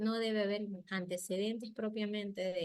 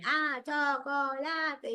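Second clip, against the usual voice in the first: "chocolate" stretched very slowly, syllable by syllable, louder; over-articulated demand; 6 semitones higher, 6 dB louder, much slower than usual. Retold or imitated. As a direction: spell out "ah, chocolate" slowly for the child to copy. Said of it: "No exigirle que repita".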